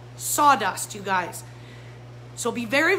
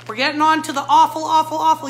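louder and faster on the repeated "awful"; emphatic dread; 3 semitones higher, 7 dB louder, faster than usual. Real, not acted. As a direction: hammer home how bad it gets. Introduces the worst products.

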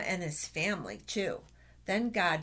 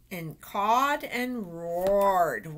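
roared; 6 dB louder, much slower than usual. Acted. Reading animal noises.

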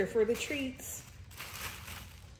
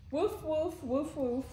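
mock barking; 2 semitones higher, 6 dB quieter, slower than usual. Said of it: "Puppy language for".

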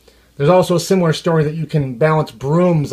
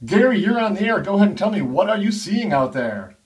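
smooth radio host. Acted. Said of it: "the D Js and the on-air personalities".

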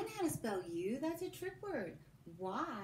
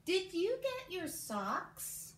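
very slow, higher and louder, leading the class; slow choral dictation; 10 semitones higher, 4 dB louder, much slower than usual. Shown as a demonstration. Teacher leading kids in saying the sentence together, slow and lifted. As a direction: stretch every word and pull the kids along with you. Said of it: "Say it with me one more time".

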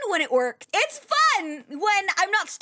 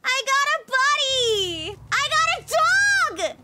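excited; 8 semitones higher, 4 dB louder than usual. Real, not acted. Delighted at new dog.

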